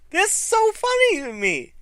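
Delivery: high, squeaky stoned giggle voice; a rapper amused. Retold or imitated. Mimicking the rapper enjoying Hogan's joke, squeaky voice. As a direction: play it tickled and high.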